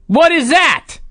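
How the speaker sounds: high-pitched imitation of a shocked scream; mock announcer scream. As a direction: cry out like a startled commentator, hammed up. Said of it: "They scream".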